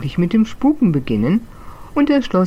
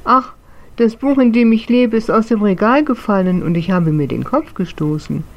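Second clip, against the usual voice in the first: high, tearful little book ghost; whiny little ghost; 5 semitones higher than usual. Acted. Little book ghost whining to the castle ghost about his head. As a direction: whimper it like a hurt tiny spirit. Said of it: "antwortete aber weinerlich".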